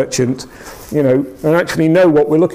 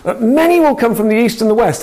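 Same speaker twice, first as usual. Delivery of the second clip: higher, ringing prophetic declaration; Jesus proclaiming to the crowd, prophetic and raised; prophesying; 7 semitones higher than usual. Retold or imitated. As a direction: announce it like a prophet. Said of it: "then he starts to prophesy".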